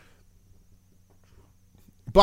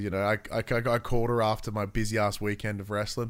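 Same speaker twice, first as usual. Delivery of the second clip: ordinary delivery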